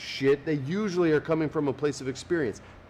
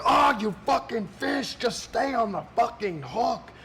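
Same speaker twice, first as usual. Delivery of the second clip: high, strained complaining at the fish; mock whiny rage; 9 semitones higher than usual. Contestant Larry cursing the fish in a high whiny voice. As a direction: curse the fish like a spoiled kid. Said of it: "Larry would be like".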